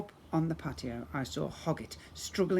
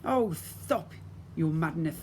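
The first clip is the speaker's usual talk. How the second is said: laughing lisp; slower than usual. Acted. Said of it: "the Molar sisters laughed".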